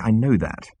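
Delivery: patient, even reply. A narrator's reading. Arthur to an excited Zaphod, patient. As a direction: explain patiently. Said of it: "he said patiently".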